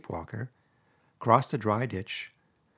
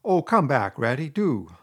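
higher, louder call after him; pleading cry; 3 semitones higher, 5 dB louder than usual. Acted. Mole hurrying after Rat: loud pleading cry. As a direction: beg him to come back. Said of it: "cried the Mole".

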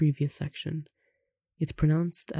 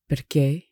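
"Perché" with a louder last E; final stress; 5 dB louder than usual. Shown as a demonstration. Teacher shows written accents, stress on the E. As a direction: punch the second syllable of "Perché". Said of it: "which has the accent on the E".

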